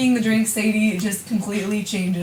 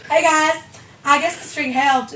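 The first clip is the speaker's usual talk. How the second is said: Southern twang, pitched up a little; playful Southern accent; 4 semitones higher than usual. Pretend. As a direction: greet them in a put-on Southern accent. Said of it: "you kinda sound like a singer".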